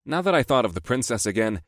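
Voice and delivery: ordinary delivery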